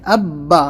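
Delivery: "اب با" with a hard doubled b; firm tashdid. Shown as a demonstration. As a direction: make both b sounds firm in "اب با". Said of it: "سختی سے".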